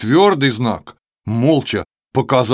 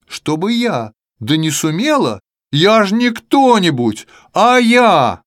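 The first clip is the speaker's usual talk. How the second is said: boastful letter; 3 semitones higher than usual. Acted. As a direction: brag about being Я, climbing.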